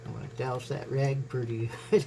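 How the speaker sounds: wheezing from allergies; wheezy voice. Real, not acted. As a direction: breathe a little wheezy. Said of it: "Sorry I'm wheezing".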